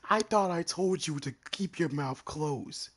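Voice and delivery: sharp scolding, high and loud; harsh barking commands. Real, not acted. Scolding someone interrupting on stream.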